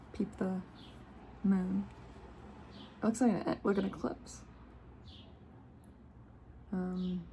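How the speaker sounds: measured, gentle reading of a card's message. Acted. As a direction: read it like a soothing oracle text. Reads the card's guidance text.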